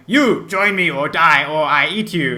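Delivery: a mock-menacing cannibal snarl; mock cannibal threat. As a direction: ham up a loincloth cannibal bellowing at strangers. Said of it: "like, going".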